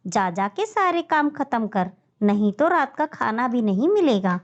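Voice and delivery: snarls then shoos them off; harsh stepmother voice; wicked stepmother. Acted. Stepmother shooing children.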